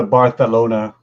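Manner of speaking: Barcelona with the c said as th; lisped Castilian pronunciation. Shown as a demonstration. Showing the lisp in Spain's Barcelona, c turned to th. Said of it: "they have more of a lisp".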